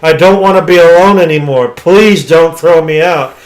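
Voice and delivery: acted-out desperate plea; mock pleading. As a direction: plead like the desperate monster, without real tears. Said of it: "crying and begging".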